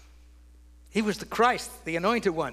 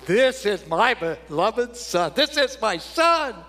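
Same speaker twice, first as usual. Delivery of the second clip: voice of God; 2 semitones higher, 3 dB louder, slower than usual. Acted. God speaking at the baptism.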